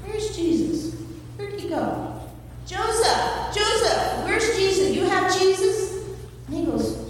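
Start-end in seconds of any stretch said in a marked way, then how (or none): 0.0-5.9 put-on high, worried calling for a lost child; anxious mother searching the crowd; frantic Mary. Mother searching the crowd for her son, high and worried.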